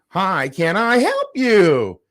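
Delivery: slow, sugary condescending greeting; mock her fake politeness. Host imitating the condescending worker greeting him, slowly. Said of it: "she was so condescending".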